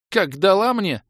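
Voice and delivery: high, loud dazed complaint; stunned. A narrator's reading. Felled fighter describes the hit, dumbfounded. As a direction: exclaim it in total bewilderment. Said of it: "находясь в полном обалдении от случившегося".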